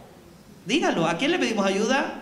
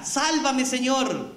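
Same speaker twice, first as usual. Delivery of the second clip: mildly acted cry to be saved; mock cry for help; 5 semitones higher, much slower than usual. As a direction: imitate a drowning man's call, restrained. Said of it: "Y ahí él le grita".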